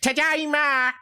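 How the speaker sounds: high goofy cartoon shout; cartoon dad voice. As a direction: yell it like a silly cartoon dad. Peter Griffin voiced coming home.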